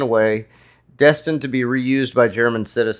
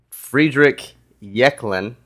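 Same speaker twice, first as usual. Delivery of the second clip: German accent. Real, not acted. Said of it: "your German accent is on fucking point".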